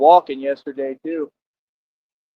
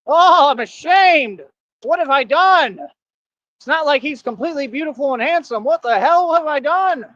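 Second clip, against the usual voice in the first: mock ashamed woman; 10 semitones higher than usual. Mocking women who regret flirting, high hammed-up wail. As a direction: overplay a fretful lady's shame.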